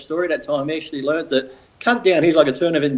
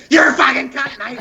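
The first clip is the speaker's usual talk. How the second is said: shouted; 8 semitones higher than usual. Shown as a demonstration. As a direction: bark it at him angrily. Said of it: "It's not like, not saying".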